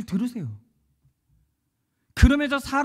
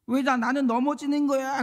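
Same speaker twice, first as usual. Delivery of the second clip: imitated crying child; 5 semitones higher than usual. Preacher imitating his daughter crying after falling, whining wail. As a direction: complain like a tearful little child. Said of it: "그러면서 막 우는 거예요".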